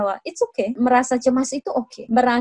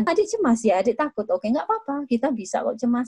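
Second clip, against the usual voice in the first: put-on soft, gentle comfort for a scared child; calm the little one softly; reassuring; 5 dB quieter than usual. Shown as a demonstration. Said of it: "Bukannya malah". (menenangkan dengan lembut)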